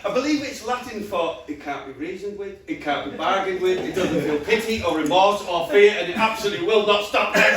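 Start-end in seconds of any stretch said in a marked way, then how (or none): 1.5-7.5 Terminator quote. Acted. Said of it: "that's the Terminator".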